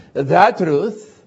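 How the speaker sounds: "The" stressed, firm. Shown as a demonstration. Preacher repeating "the truth" to the congregation, firm. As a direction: lean on "The" again. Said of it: "why I do emphasize the word "the".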